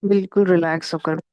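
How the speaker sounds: calm instructions with long pauses; guided meditation. Real, not acted. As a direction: settle the group gently into meditation, leaving long silences. Guides group into meditation posture. (ध्यान कराने का शांत, ठहरा हुआ अंदाज़)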